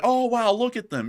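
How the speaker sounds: high-pitched gawking wonder; amazed onlooker. Acted. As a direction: act out marveling at a curious sight. Imagined onlookers gawking at tribes.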